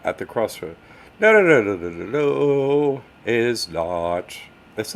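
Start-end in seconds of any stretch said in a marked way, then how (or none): 1.2-3.0 loud, higher, insistent string of noes; emphatic no. Real, not acted. Host shuts down a viewer's Papa Legba story, emphatic. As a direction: shut the claim down hard. Loudly rejecting a viewer's claim.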